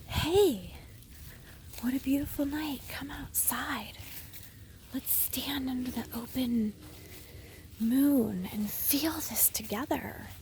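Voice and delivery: whispered romantic plea to her husband under the moon; tender whispered invitation. Retold or imitated. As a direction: coax him outside gently, in a whisper. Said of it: "And I say".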